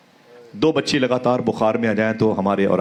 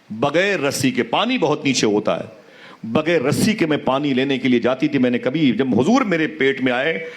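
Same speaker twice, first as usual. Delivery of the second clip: storytelling preacher, voice rising and falling with emotion; impassioned sermon; 2 semitones higher than usual. Acted. Preacher to the gathered congregation, impassioned storytelling. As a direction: tell it to move the congregation to tears.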